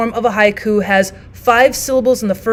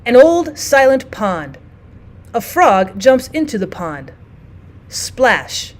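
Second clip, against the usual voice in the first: slow poem recital with long pauses; measured, pausing haiku recital; haiku reading; slower than usual. Shown as a demonstration. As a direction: read it like a still pond, unhurried. Reads haiku example aloud.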